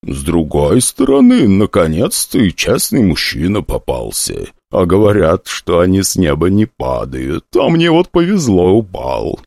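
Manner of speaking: lightly voiced old hostess, slow; crone hostess. Hostess sizing up the prince, a lightly voiced crone. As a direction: drawl it like a sly old hag.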